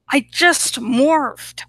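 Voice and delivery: slow breathless whisper. Acted. Cornered girl in squirrel form whispers to hawk friend. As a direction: hush it out, frightened and urgent. Panicked squirrel pleading in thought-speak.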